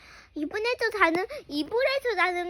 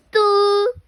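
firm command; 5 dB louder than usual. Acted. Firm order to stop crying.

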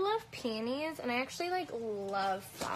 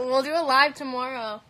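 laughing; 2 semitones higher, 9 dB louder than usual. Real, not acted. Still laughing after refusal.

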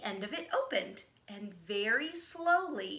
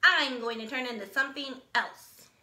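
proudly; 3 semitones higher, 6 dB louder than usual. Acted. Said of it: "he said proudly to the frog".

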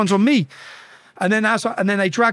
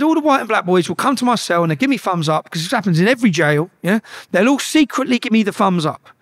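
giving it out; 3 semitones higher, 3 dB louder than usual. Retold or imitated. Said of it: "I'm having all this through the windows".

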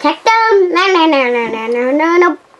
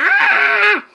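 pretend scared; 11 semitones higher than usual. Child pretends fright.

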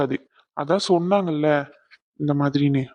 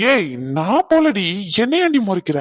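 defensive; 3 semitones higher than usual. Acted. Husband protests wife's glare.

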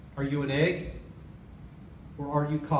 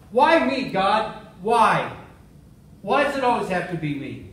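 louder, self-pitying wail to God; a touch of a whiny pity party, raised voice; pity party whine; 2 semitones higher, 4 dB louder than usual. Retold or imitated. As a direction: moan it like a sulking victim. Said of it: "had a little pity party".

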